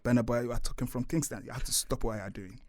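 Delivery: put-on low, measured African accent; stern telling-off in a put-on African accent; mock African accent. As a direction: scold in an imitated African accent. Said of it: "They even had to do African accents".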